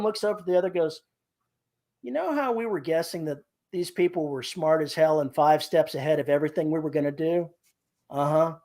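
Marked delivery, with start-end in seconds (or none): 2.0-8.6 deadpan. Retold or imitated. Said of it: "that deadpan voice".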